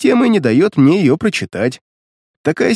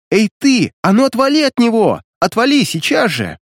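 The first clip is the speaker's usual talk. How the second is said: high-pitched, mildly raised indignant cry; indignant yell; 9 semitones higher than usual. A narrator's reading. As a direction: voice a girl's outraged warning to back off. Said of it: "возмущённый вопль Насти". (возмущённый вопль)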